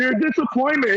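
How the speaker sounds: half-volume reenacted yell; retold yell. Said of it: "I'm yelling at him".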